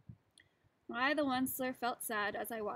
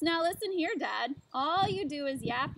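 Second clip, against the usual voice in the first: yelling; 3 semitones higher, 4 dB louder than usual. Acted. Onceler yelling at the Lorax, angry shout. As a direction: yell it at him. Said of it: "I yelled at the Lorax".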